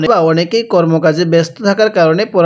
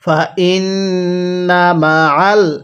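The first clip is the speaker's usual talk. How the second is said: stretched syllables, measured Arabic reading; slow recitation; slower than usual. Shown as a demonstration. Teacher models the word slowly for learners to copy. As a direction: draw out ওয়া র ফা না evenly. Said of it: "কিভাবে শিখব?".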